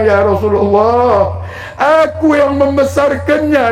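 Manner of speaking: high, slow and tearful, close to sobbing; weeping mother. Acted. Old mother answering the Prophet about her son, tearful and high. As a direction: plead through tears like a grieving old mother. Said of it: "Menangislah si ibu dan menjawab".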